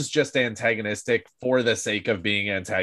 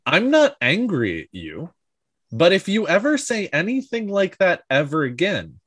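deliberate, measured menace with heavy pauses; calm threat. Retold or imitated. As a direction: act out a threat without yelling. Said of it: "a hundred percent calmly".

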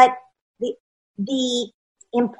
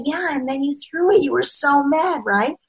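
gentle parent; 5 semitones higher, 4 dB quieter than usual. Acted. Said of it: "You say".

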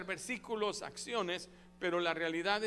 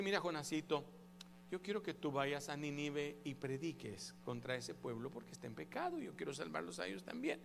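God speaking; 4 semitones lower, 9 dB quieter than usual. A narrator's reading.

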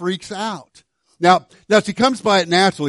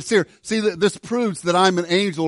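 mock angel; 3 semitones higher than usual. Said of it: "pulled out an angel card and said".

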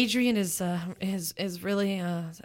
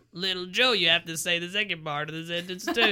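laughing. Real, not acted. Laughing at reader's joke.

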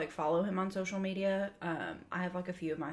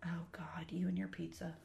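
hushed tease; 7 dB quieter than usual. Real, not acted. Hushed teasing reply.

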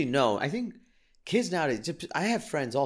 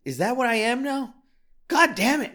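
suddenly much higher and louder, a real outburst of anger; getting angry; 12 semitones higher, 6 dB louder than usual. Real, not acted. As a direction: let the frustration burst out, shouting at yourself. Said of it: "I'm getting angry".

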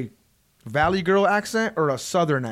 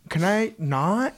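put-on slow, drawn-out Valley Girl whine; mock a Valley Girl, stretching each word; 3 semitones higher, much slower than usual. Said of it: "The Valley Girl voice?".

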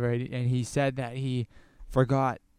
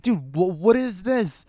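incredulous; 5 semitones higher, 7 dB louder, slower than usual. Retold or imitated. Retelling confronting the dealer.

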